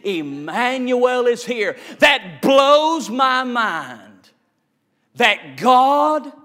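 shouted, half-sung climax; full-force preaching. Acted. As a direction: whoop the Gospel over the music. Preaching climax over music.

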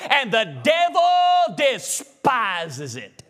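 slow, drawn-out preaching shout; slow fiery shout at the devil. Real, not acted. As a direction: bellow it out slowly.

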